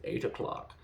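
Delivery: brief Scottish Connery impression; lightly done Scottish Bond voice; Sean Connery. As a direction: answer in a mock Connery Scottish accent. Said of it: "That was Sh-, Sean Connery".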